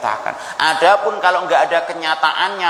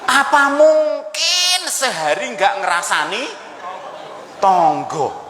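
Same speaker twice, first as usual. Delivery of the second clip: retorting housewife; 7 semitones higher, slower than usual. Retold or imitated. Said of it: "Langsung dibantah gitu".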